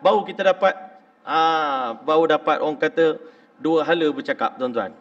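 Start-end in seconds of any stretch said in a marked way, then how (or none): none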